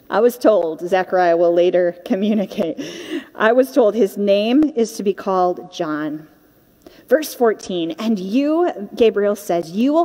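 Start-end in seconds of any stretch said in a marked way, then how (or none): none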